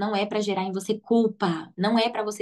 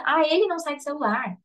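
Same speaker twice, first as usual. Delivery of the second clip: higher mock complaint about the child; blaming parents; 4 semitones higher than usual. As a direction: whine that it's all the kid's fault. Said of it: "os pais, eles responsabilizam a criança".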